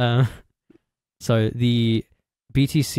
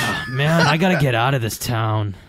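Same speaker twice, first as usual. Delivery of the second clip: put-on American accent; 2 semitones higher than usual. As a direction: shout it like a restless teen. American kid persona.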